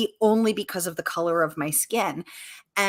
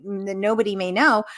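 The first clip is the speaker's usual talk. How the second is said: usual speaking voice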